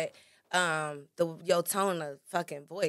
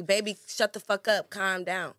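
louder, blunt command; harsh delivery; 6 dB louder than usual. Shown as a demonstration. Man shutting his woman down: loud blunt rudeness. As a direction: snap it out rudely. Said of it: "It's all about your delivery".

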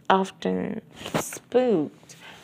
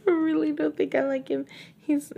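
laughing; 8 semitones higher, faster than usual. Real, not acted.

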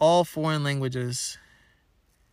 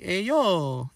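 hammed-up Italian accent with a swooping tune; Mario-style Italian accent; 3 semitones higher than usual. Shocked Italian man calling to a stranger, mock Italian accent. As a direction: call it out like a cartoon Italian. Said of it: "in, like, an Italian accent".

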